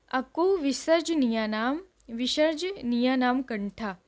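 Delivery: slow, measured sutra chant; slow classroom chanting of अकु विसर्जनीय नाम कंठा; slow recitation. Shown as a demonstration. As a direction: recite it slowly, syllable by syllable, for students to copy. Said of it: "इतना मुश्किल नहीं है".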